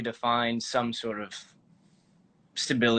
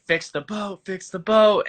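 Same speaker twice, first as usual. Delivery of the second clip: frantic crew calls; 8 semitones higher than usual. Retold or imitated. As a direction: mimic crew yelling over each other. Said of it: "everyone's like".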